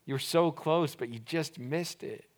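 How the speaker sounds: soft, let-down head shake; quiet disappointed lament; disappointed sigh. Shown as a demonstration. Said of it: "shaking your head with disappointment".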